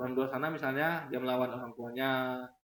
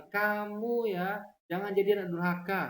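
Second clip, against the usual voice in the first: stern parent; 4 semitones higher, 3 dB louder than usual. Retold or imitated. Good parent warns child.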